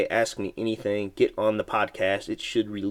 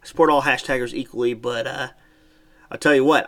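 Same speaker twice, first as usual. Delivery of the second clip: ad read; 3 dB louder than usual. Acted. Sponsor ad read continues.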